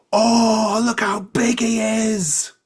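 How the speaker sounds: very high, loud, slow goblin cooing; squealing goblins. Acted. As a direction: gush at him like excited little goblins. Crowd of goblins marvelling.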